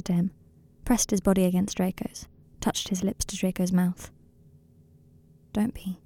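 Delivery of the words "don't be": soft, tender reassurance. A narrator's reading. Harry comforts a terrified Draco, tenderly. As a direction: reassure gently, barely above a murmur.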